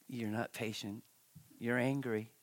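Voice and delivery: low, soft, matter-of-fact aside; imitated wife's coded rebuke. Preacher translates his wife's code, in a quiet, low rebuke. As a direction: quote the wife quietly, dropping pitch and level. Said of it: "But she's telling me".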